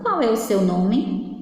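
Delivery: slow question on "Qual é o seu nome?"; question intonation. Shown as a demonstration. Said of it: "Que eu fiz uma pergunta".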